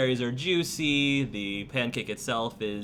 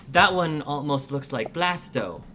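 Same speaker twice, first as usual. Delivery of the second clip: put-on little girl voice; 4 semitones higher, 4 dB louder than usual.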